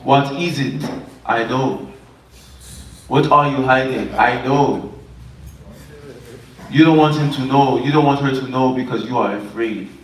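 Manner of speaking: lightly put-on Jamaican fortune-teller accent; measured imitation Jamaican accent, pausing between phrases; mock Jamaican accent. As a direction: play a knowing psychic with a Jamaican accent. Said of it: "y'all say it's a Jamaican accent".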